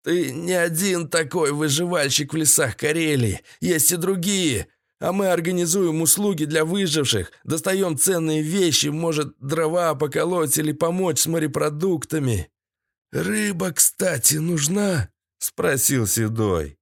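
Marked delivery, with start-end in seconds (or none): 0.0-12.5 high, strained explaining voice; higher voice of a tied-up trader; captive's character voice. A narrator's reading. 13.1-15.1 high-voiced captive making an offer; higher character voice; Седой. A narrator's reading.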